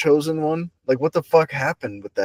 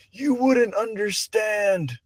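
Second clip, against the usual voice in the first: condescending dismissal; 6 semitones higher, 4 dB quieter, much slower than usual. Retold or imitated. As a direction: talk down to them like they'll never get it. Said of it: "the vibe you were giving them was".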